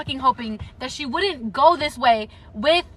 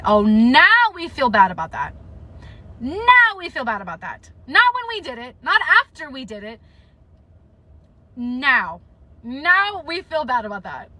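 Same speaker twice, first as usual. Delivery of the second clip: sarcastic. Real, not acted. Vlogger mocking Adian's late guilt, sarcastic and pointed. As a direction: sneer at his timing.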